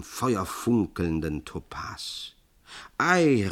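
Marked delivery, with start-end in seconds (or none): 3.0-3.5 high, loud exclamation of delight; called out. A narrator's reading. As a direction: exclaim it as an excited maid. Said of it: "rief die Magd". (aufgeregt und laut ausgerufen)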